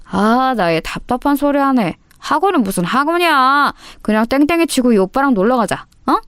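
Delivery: put-on delinquent senior boy. Bully talking a girl into skipping class, pushy. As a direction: brush off the excuse and pressure. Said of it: "접근 방식이 상당히 불량했다고".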